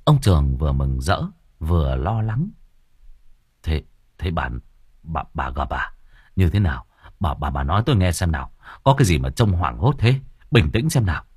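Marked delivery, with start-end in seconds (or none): 3.6-11.2 a hint of a flustered old man; worried husband. Husband asks wife what she saw, lower and stammering.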